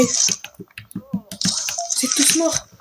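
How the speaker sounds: a slow, laughing tous morts; laughing drawl. Real, not acted. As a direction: stretch it out through a laugh. Mocks the dead survivors.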